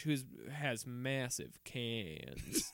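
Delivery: laughing. Real, not acted. Joke said through laughter.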